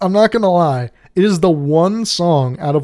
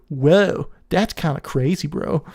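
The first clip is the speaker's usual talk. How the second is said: dopey bystander. Acted. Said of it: "not doing anything, not helping anyone".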